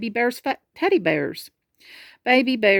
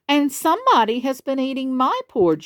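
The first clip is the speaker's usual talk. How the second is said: higher, lightly voiced mother bear; a touch higher, moderate call; hint of Mama Bear calling; 6 semitones higher than usual. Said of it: "shouted Mama Bear, not quite so loudly".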